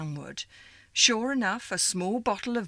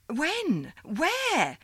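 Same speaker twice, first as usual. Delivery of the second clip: higher, quick anxious questions; urgent questions; 11 semitones higher than usual. Acted. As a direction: demand details fast.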